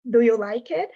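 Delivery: "Do you like it?" with a rising question tune; asking "Do you like it?"; English yes-no question. Shown as a demonstration. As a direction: lift the end of "it?" into a question. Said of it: "it has the do".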